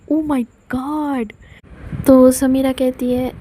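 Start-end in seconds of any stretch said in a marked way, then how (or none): 0.1-1.3 shocked. Acted. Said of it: "पूरा shock हो जाती है".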